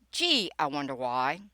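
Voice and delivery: low, dry sarcastic wondering; mock-puzzled and openly sarcastic; dripping sarcasm. Real, not acted. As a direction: play innocent, dripping with sarcasm. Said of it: "sorry about dripping sarcasm on your shoes".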